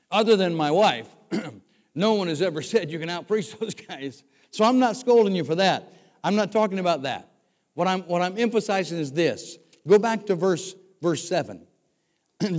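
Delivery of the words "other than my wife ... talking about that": louder, punching the point home; raised pulpit voice; emphatic preaching. Real, not acted. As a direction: drive it home to the congregation.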